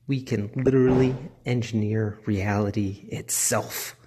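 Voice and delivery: lightly hammed-up supervillain menace; a hint of a gloating villain; dramatic supervillain voice. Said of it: "Dramatic supervillain voice".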